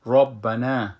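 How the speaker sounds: ربنا with a heavy rounded ra; full ra. Shown as a demonstration.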